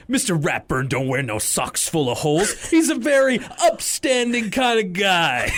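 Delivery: put-on a tough street kid talking like a mobster, going high and shouting at the end; hammed-up gangster kid, rising into a shout; Rattles tough-kid voice. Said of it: "this amazing delivery from Rattles".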